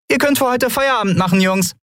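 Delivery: high, quick cheerful dismissal; captain calling to the dockhands, cheery. A narrator's reading. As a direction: send the workers home gladly. Dismissing the dock workers.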